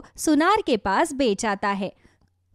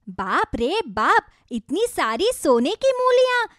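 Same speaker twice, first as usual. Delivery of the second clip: amazed wife; 6 semitones higher than usual. Acted. Wife finds golden radishes.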